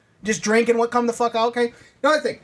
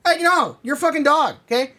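scolding the dog; 6 semitones higher than usual. Pretend.

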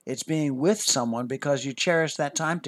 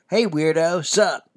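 talking through a mouthful of cookie; mouth full; 4 semitones higher, 6 dB louder, slower than usual. Acted. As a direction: say it while chewing a cookie. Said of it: "he muttered through a mouthful of cookie".

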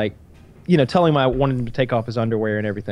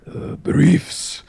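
sheepish answer. Retold or imitated. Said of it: "He's fucking".

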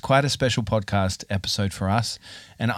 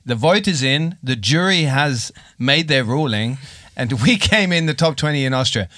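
announcer. Acted. Mock award announcement.

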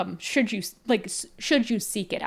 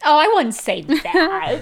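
incredulous; 8 semitones higher, 8 dB louder, slower than usual. Real, not acted. Friend disputes eighty percent claim.

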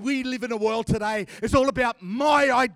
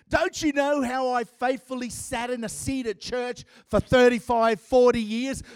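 mock self-righteous boasting; 3 semitones higher than usual. Self-righteous churchgoer boasting to God.

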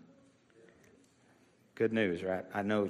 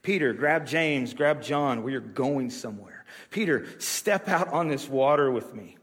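preacher voicing a summons with emphatic force; Jesus; 4 semitones higher than usual. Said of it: "Peter's name always came out of Jesus' mouth".

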